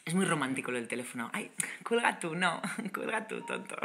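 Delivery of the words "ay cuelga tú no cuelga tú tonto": mock lovers on phone. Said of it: "el término colgar".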